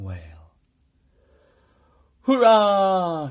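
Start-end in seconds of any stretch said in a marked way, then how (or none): 2.2-3.3 high, loud cry of triumph; a boy cheering on finding the Yeti; joyful shout. A narrator's reading. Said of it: "shouted George".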